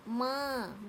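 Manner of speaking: माँ with the vowel through nose and mouth; nasalized vowel demonstration. Shown as a demonstration. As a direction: model a drawn-out, nasal माँ. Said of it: "नाक और मुंह". (माँ, नाक और मुंह दोनों से)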